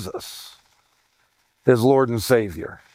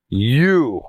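"You." said alone, low and pointed; a low, deliberate you; emphatic you; 3 semitones lower than usual. Shown as a demonstration. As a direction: point the word "You." straight at the listener. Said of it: "Who's he talking to?".

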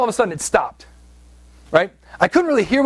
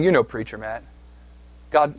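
taunting enemy voice; 3 semitones lower than usual. Retold or imitated. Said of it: "hearing the voice of our enemy saying".

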